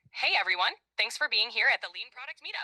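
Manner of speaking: put-on light Greek accent on English. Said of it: "I want you to speak more like me".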